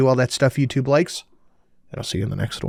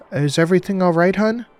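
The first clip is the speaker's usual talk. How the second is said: higher, bright-toned Southern receptionist; cheerful southern accent; 6 semitones higher than usual. A narrator's reading. Receptionist answering the phone, cheerful Southern accent. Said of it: "cheerful voice and a southern accent".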